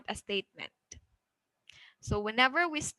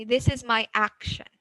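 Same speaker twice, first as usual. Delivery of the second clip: "This is my action" going up, then down as it ends; teacher's model statement, lifting before the fall on "action"; rising-falling intonation. Shown as a demonstration. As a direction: let "action" come down to close the statement. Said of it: "moves from normal to high and then goes".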